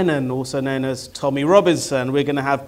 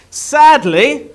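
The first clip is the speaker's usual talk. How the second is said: mock sorrow; 10 semitones higher, 10 dB louder than usual. Mock-grave news of no-shows.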